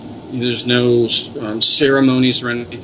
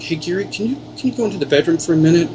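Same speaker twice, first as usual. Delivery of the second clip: higher and fast, rushing the ask; urgent request; 7 semitones higher, faster than usual. Retold or imitated. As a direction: hurry him into the bedroom. Urgently asking Gary for help.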